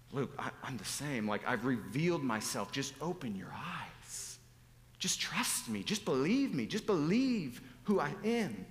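gentle appeal, then rising insistence; patiently imploring, drawing out the last words; earnest pleading. Acted. Preacher voices Jesus urging him to just trust, pleading earnestly.

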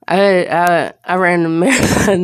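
panting after a run; winded, catching breath between words. Real, not acted. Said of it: "that's why I'm practically out of breath".

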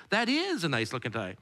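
"is" pressed firmly; weight on "is" in "That is a nice looking tie"; stress on is. Shown as a demonstration. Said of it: "draws your mind that maybe there was other ones".

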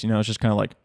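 ordinary delivery

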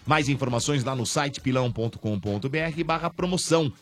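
enthusiastic radio commercial pitch; ad read. Acted. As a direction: hype it up for listeners. Sponsor ad read to listeners.

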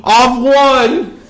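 high Australian-Cockney mix; bad mixed Australian accent. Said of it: "I'll talk in an accent now".

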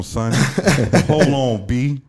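lightly put-on New York accent; mock-indignant New Yorker, unhurried pauses. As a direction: play up a bit of New York talk. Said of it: "let me get my New York voice on".

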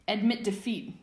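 high, loud triumphant cry; pillow-fighter crying out in triumph; cried out. Acted. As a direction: crow it at him in victory. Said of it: "James cried".

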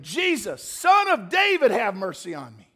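loud cry, peaking high then dropping; high, pleading holler; shouting. Acted. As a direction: shout out a plea for mercy. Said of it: "He began shouting".

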